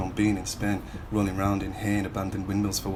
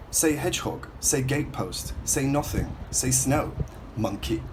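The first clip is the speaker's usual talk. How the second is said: high taunting commands; mocking; 5 semitones higher than usual. Kids at camp daring him to talk proper, high and mocking. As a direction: goad him word by word, pitched well up. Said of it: "other people laugh you can't talk proper".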